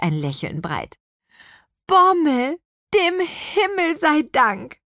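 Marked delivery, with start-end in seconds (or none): 1.9-4.8 high, drawn-out cry of relief; heartfelt thanks, pitched high; relieved exclamation. A narrator's reading. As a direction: call out to a rescuer, overjoyed. Witch greets the rescuing carp.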